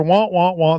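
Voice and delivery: muffled trombone-like wah wah wah; Charlie Brown teacher wah. Retold or imitated. Mocking Alabama talk as the Peanuts teacher's wah wah. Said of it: "the Peanuts, you know, Charlie Brown, the teacher".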